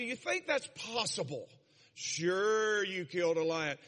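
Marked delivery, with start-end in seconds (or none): 1.9-3.8 mocking big brother. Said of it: "I'd say".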